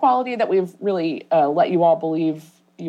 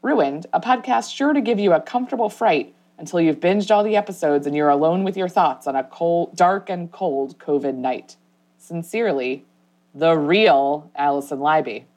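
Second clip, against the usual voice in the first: reading a review. Shown as a demonstration. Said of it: "the review reads".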